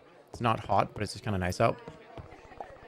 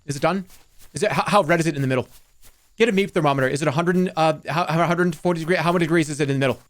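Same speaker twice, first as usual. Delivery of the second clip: fast panicky burger worry, louder; freaking out; 3 semitones higher, 4 dB louder, faster than usual. Retold or imitated. Streamer panicking over an undercooked burger, fast anxious rant. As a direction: rattle off the worries in a panic. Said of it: "I will freak out and be like".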